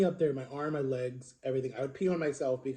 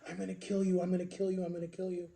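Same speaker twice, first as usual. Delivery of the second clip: higher-pitched imitation of a brother's threat; retold death threat; 4 semitones higher, 4 dB quieter, faster than usual. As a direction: chant the threat without shouting, as retelling. Brother attacking in retold fight.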